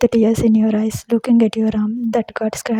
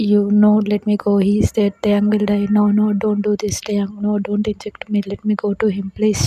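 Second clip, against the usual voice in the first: panicked shouting. Acted.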